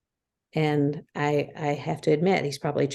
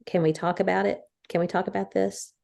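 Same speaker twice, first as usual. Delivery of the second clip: gentle ask; 3 semitones higher than usual. Shown as a demonstration. Wife showing the kind way to ask to talk. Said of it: "Or you can say".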